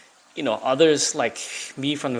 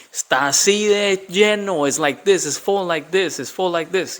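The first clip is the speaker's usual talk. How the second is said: excited retelling; 4 semitones higher, 3 dB louder than usual. Retold or imitated. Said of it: "It means he's writing me".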